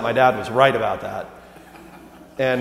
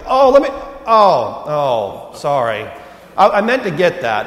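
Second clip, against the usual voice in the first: fake offer to pay; 4 dB louder, slower than usual. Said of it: "act like they were gonna get".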